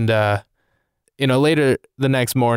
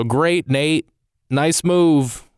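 sarcastic self-scolding; 4 semitones higher, much slower than usual. Real, not acted.

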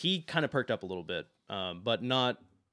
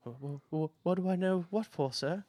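stammering fear; 8 semitones higher than usual. Acted. Scared Snips stammers at knight.

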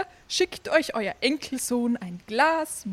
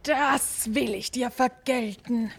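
roaring threat. Acted. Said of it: "brüllte der große Klaus".

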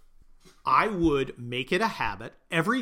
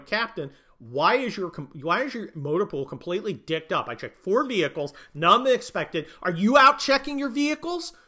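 building to a loud, higher dressing-down; colonel chewing out; 5 semitones higher, 4 dB louder than usual. Retold or imitated. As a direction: scold the captain, rising to a bark.

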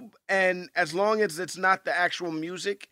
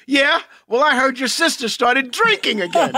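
louder, rising jab "Yeah? Well"; cocky smack talk; 3 semitones higher, 4 dB louder than usual. Retold or imitated. Friend redoing a costar's cocky comeback, louder and rising. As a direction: sneer the comeback with a rise at the end. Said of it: "It's just your delivery".

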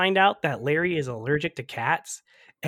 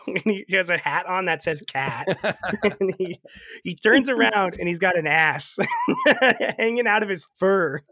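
ordinary talk, nothing marked

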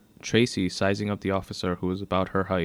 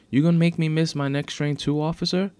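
put-on high, louder teen whine of protest; indignant complaint; 8 semitones higher, 5 dB louder than usual. A narrator's reading. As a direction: complain to the officer in raised pitch. Detained teen complains to officer.

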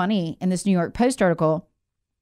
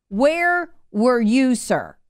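mocking; 3 semitones higher, much slower than usual. Real, not acted. Rhetorical jab repeated slowly.

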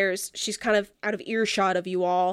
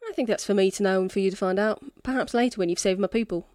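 put-on lightly accented drunken quest-giver; tipsy non-player character; faster than usual. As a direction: lay out the job as a mildly tipsy rogue. Game master voices Echo.

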